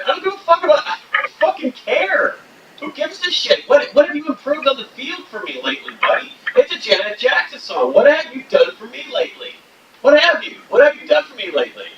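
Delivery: high-pitched exasperated rant at the owner; indignant fan yelling at the team owner; mock rant. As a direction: squeal the complaint in mock outrage.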